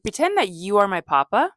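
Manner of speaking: a hint of old man voice; lightly voiced papa, drawn out; papa's sleepy voice. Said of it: "He's like".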